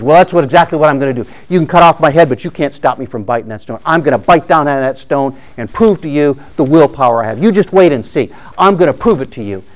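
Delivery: acted hot-headed insistence; hammed-up defiance of the executioner; defiant vow. Condemned man vows to bite stone.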